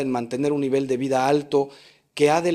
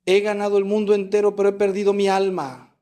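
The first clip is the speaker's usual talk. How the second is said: higher-pitched cry of regret, retold; raised voice, mild imitation of despair; retold tearful lament; 5 semitones higher, 3 dB louder than usual. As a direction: imitate a dying man's anguished lament. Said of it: "Me dijo entre lágrimas".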